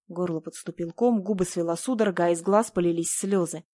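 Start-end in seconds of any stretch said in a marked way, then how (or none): none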